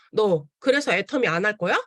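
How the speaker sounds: mildly stern imitation of a mother; stern, straight-faced. Mother confronting her complaining daughter about business, mildly stern. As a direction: retell it as a cool, no-nonsense challenge. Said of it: "딱 정색을 하시면서".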